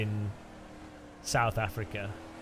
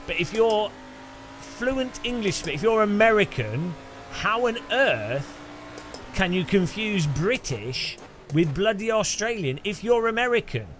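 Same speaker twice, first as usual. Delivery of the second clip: higher-pitched, exasperated disbelief; incredulous; 5 semitones higher than usual. Real, not acted. Streamer ranting at Americans who confuse British with Australian, incredulous. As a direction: argue it like it makes no sense. Baffled rant at accent mix-up.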